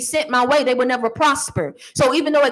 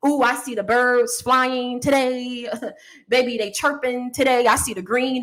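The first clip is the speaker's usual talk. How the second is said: Mister Rogers. Retold or imitated. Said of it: "Channel your inner Mister Rogers".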